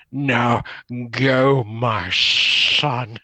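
dying Vader. Retold or imitated. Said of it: "Darth Vader".

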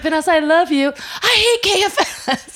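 put-on high child voice, slowing on the last words; a drawn-out, teasing kid boast; imitating a little boy. Teacher retells the boy's cute line to a mom, mock child voice. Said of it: "He's like".

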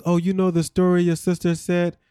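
lightly imitated Haitian accent; put-on Haitian accent. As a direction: quote him with a hint of a Haitian accent. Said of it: "Why you gotta put on the accent?".

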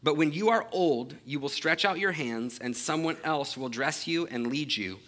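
measured, solemn Bible reading; a steady public reading of scripture. Acted. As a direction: read the passage clearly to the congregation. Reads verses eighteen and nineteen.

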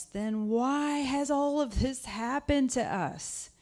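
put-on a troubled young man asking why God left them; Gideon's complaint. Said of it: "Gideon said to him".

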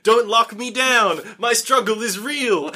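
hammed-up slam poetry, stretched out. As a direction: declaim it like a slam poet. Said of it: "He starts doing slam poetry".

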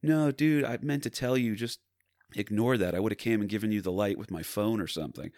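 lightly imitated stoner dude; a hint of an apologetic stoner. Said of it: "he had, like, a little stoner voice".

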